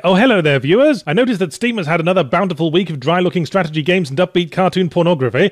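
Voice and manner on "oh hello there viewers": sudden louder, higher host voice; caught-out greeting. Real, not acted. Caught talking to himself, suddenly greets viewers, startled and loud. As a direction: snap into presenter mode, startled.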